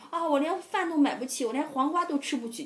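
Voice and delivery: lightly voiced whiny landlord; mock whining landlord. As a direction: play the stingy landlord crying poor. Mimicking stingy landlord's complaint.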